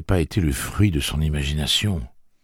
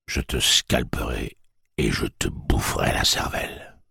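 menacing whisper; 4 semitones lower than usual. A narrator's reading. Tic-Tac threatening to scalp Jake, whispered.

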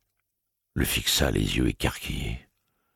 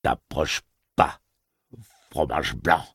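tremble; 3 semitones higher, 3 dB louder, slower than usual. A narrator's reading. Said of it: "avec un tremblement dans la voix".

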